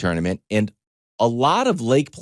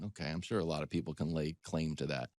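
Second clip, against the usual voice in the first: sarcastic; 6 semitones lower, 14 dB quieter, faster than usual. Retold or imitated. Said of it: "I'm like".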